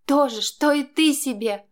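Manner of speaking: angry wife, voiced high and loud; woman snapping back. A narrator's reading. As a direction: throw his words back at him. Wife fires back in quarrel.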